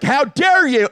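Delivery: high-pitched indignant dad; mock outrage. Dad half outraged at son's prank, mock indignation. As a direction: scold in exaggerated indignation. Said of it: "part of me was like".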